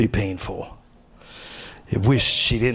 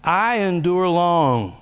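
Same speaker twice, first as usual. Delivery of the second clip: high, slow proclaiming; personal confession read out; 8 semitones higher, 3 dB louder, much slower than usual. Shown as a demonstration. Pastor reading his personalized verse, high and slow. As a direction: declare it slowly like a creed. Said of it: "I'm gonna read it to you".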